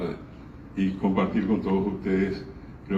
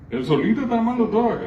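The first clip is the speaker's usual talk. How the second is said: excited; 13 semitones higher, 4 dB louder, faster than usual. Real, not acted. Speaker praises the boy enthusiastically.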